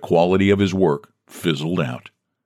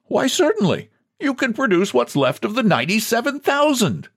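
higher, lightly voiced president, teasing; mild mock politeness. A narrator's reading. President humoring John, a hint of mockery. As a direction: humor the madman.

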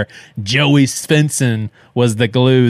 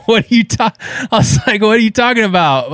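much higher, fast disbelieving question; incredulous; 11 semitones higher, 3 dB louder, faster than usual. Retold or imitated. Nephew baffled by uncle refusing the address, incredulous. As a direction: sound totally baffled by the request. His own baffled reply retold.

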